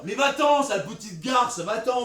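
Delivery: angry shout. Acted. Lover rejects Hermia in quarrel.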